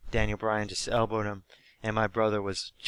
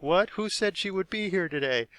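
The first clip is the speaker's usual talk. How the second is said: much higher, put-on baffled voice; mock surprised crowd; 9 semitones higher than usual. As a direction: play a stunned fan in the crowd.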